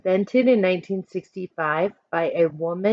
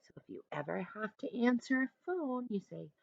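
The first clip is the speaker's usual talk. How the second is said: hushed aside; soft whispered aside; 3 semitones higher, 14 dB quieter than usual. Real, not acted. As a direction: drop to a whisper for this bit. Teacher drops to whisper aside.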